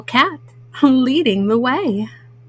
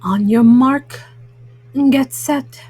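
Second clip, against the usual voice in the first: louder race-start call building to go; starter's shout; 4 dB louder than usual. Acted. Mom reading to kids, Callie shouts the race start loudly. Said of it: "Callie shouts".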